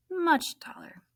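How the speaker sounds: rueful whisper; whispered aside. Acted. Rueful aside about height.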